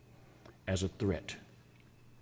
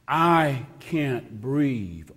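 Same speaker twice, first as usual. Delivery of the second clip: slow quoted plea; 3 semitones higher, 3 dB louder, much slower than usual. Retold or imitated. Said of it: "the words we hear on the video".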